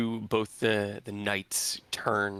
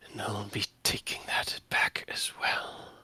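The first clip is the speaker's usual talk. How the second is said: dark lord. Acted. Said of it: "She narrows her eyes".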